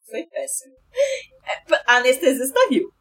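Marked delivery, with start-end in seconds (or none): 0.1-0.7 weak deflated murmur. Retold or imitated. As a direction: moan it out weakly.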